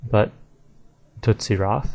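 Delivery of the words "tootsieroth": "Tootsieroth" as TOOT-see-roth; correct way. Shown as a demonstration. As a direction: say "Krill Tootsieroth" like Tootsie Roll. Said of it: "it sounds like Tootsie Roll".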